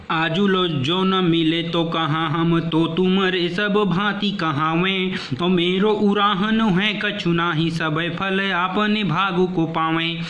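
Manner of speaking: slow, measured verse recital; poem recitation. Acted. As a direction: chant the savaiya like a reciter. Teacher recites the next verse.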